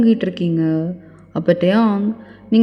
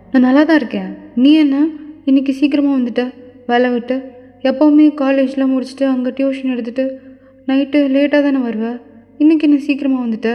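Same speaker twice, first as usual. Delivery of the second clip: higher-pitched, mildly nervous mother; flustered mother; 3 semitones higher than usual. Acted. Mother surprised by son's early return, mildly flustered deflecting. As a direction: cover up with slightly anxious questions. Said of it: "அவங்க அம்மா அப்படியே ஒரு மாதிரி பதட்டமாகறாங்க".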